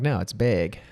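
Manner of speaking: "bag" said like "beg"; Minnesota bag. Retold or imitated. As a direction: insist on the Minnesota "bag", rhyming with "vague". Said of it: "and I'm like".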